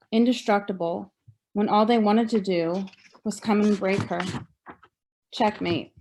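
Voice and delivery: measured recital of a poem, phrase by phrase; poetry reading. Acted. Survivor reading poem from own book, measured poetry reading. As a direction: read your poem out with deliberate pauses.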